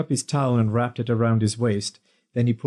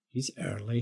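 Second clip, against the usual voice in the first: inner thought; 10 dB quieter than usual. A narrator's reading. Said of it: "he thought".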